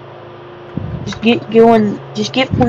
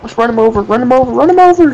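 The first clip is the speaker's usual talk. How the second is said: building to a shout; 3 semitones higher than usual. Real, not acted. Urging to ram player.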